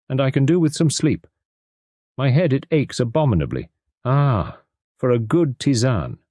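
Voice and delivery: high detective voice, lightly complaining; weary Poirot. A narrator's reading. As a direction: sigh for the tisane as the fussy detective. Poirot's voice continues.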